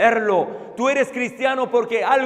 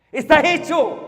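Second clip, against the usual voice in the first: "Está hecho" said full-voiced and firm after the whisper; proclaimed aloud; 4 semitones higher than usual. Real, not acted. Preacher proclaiming the finished work to congregation. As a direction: announce "Está hecho" with a falling, decisive tune.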